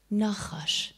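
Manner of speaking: the name breathed out in a whisper; hushed whisper. Acted. Teacher names the hidden danger in a whisper. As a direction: whisper it like a secret. Naming the serpent again, hushed.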